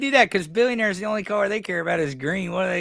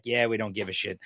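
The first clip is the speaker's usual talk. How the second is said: dismissive; 8 semitones lower, 7 dB quieter than usual. Retold or imitated.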